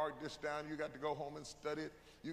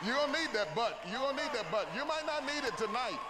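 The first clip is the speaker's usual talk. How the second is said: preaching shout; 5 semitones higher, 3 dB louder than usual. Acted. Preaching at full force.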